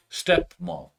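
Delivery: اسٹیپ مام as two separated words; code word spelled out. Shown as a demonstration. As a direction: set out اسٹیپ, pause, then مام. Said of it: "first letter لے کے code بنا دیا". (اسٹیپ مام کو الگ الگ کر کے)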